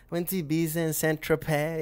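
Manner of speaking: high bragging voice, lightly mocked; imitating sister. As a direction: show off the trip like a snobby sister. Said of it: "She's like".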